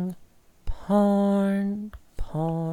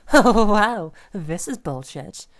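outraged; 5 dB louder than usual. Acted. Reading insulting texts.

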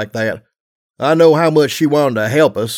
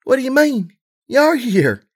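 giggling; 11 semitones higher than usual. A narrator's reading. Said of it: "she giggled".

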